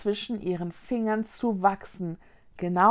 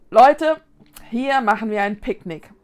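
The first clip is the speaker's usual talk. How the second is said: rousing announcement; 9 dB louder than usual. Acted. Vicky proposes a picnic to two friends, rousing. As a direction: lively call to the group.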